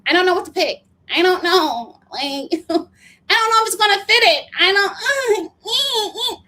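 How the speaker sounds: loud, high-pitched hammed-up sobbing; mock crying. Recapper imitating a woman crying over condoms in the pharmacy, mock sobbing. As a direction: imitate a breakdown, wailing into whimpers. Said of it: "she starts breaking down crying".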